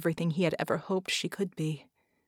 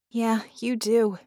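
small smile; 3 semitones higher, 4 dB louder, slower than usual. A narrator's reading. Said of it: "said with a small smile".

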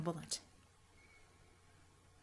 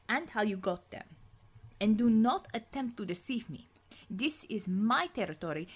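firm commanding commissar. Acted. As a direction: lay down the law on your own turf. Commissar demands John's past.

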